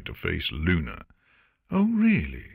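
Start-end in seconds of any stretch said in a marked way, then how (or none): 1.7-2.4 high sarcastic oh really; mock disbelief, a touch of sarcasm. Artemis doubting Luna's coffee claim, mildly sarcastic. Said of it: "she said in a sarcastic drawl".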